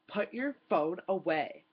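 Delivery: slow, clipped mock snap from the man behind; imitating a rude stranger telling her off. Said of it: "he snaps at me".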